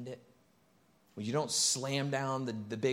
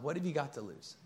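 gentle question; 3 semitones higher, 4 dB quieter than usual. Shown as a demonstration. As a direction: offer "What have you got to lose?" softly and calmly. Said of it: "to simply respond".

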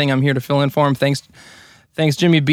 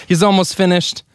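frantic mock sports commentary. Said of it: "give him a little play-by-play".

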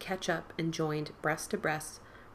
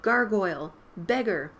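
excited shout; 2 semitones higher, 6 dB louder than usual. Acted. Boys announcing costumes.

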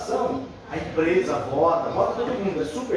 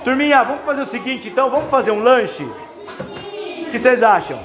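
kindergarten teacher voice; 6 semitones higher, 5 dB louder than usual. Real, not acted. Teacher addresses class of kids.

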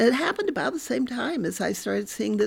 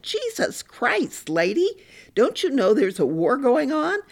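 exasperated shout, much higher then louder; angry outburst; 6 semitones higher, 4 dB louder than usual. Retold or imitated. Psychiatrist slams the table at the crying housewife, angry shout. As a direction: bark it like a fed-up army doctor. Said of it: "he slammed his hand down on the table".

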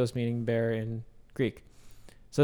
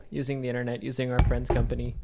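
mic knocks under speech; bumping the microphone while talking; tapping the mic; much faster than usual. Real, not acted. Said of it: "I gotta stop hitting my mic".

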